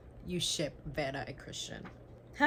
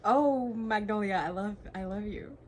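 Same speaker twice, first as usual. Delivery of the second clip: excited; 3 semitones higher, 6 dB louder than usual. Real, not acted. Swooning over a character.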